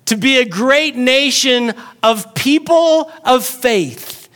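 slow high sermon climax over music; preaching at full force. Real, not acted. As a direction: lean into each word like a revelation.

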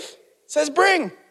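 slow, "bring" hit hard; emphatic preacher contrast on "bring"; stress on bring. Shown as a demonstration. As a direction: land on "bring" against "give". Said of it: "It doesn't say give".

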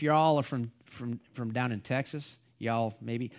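badly faked Texas accent. Shown as a demonstration. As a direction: attempt a Texas accent, not very well. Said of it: "that's not a very good Texas accent".

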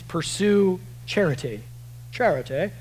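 lightly put-on King James accent; a touch of old-Bible King James accent. Preacher quoting the old translation to the congregation, mild King James accent. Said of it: "That was my King James accent".

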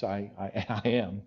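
soft, embarrassed admission with a nervous laugh; sheepish confession. Retold or imitated. Pastor admitting his job at a celebrity dinner, sheepish and soft. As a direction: stammer it out softly, a little ashamed. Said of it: "he had to confess".

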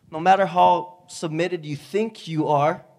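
ordinary talk, nothing marked

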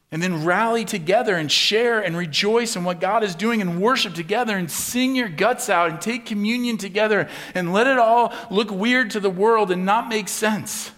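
rally the congregation; rousing preaching. Real, not acted. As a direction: passionate preaching climax. Preacher builds to climax.

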